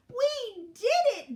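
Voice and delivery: high, loud victory cheer; triumphant. A narrator's reading. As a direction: cry it out in triumph. Hens celebrate their victory.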